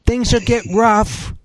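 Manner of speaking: hammed-up solemn prophetic reading; mock solemn prophetess. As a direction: drag out each word like a grave oracle. Parodying prophetess revealing a dream.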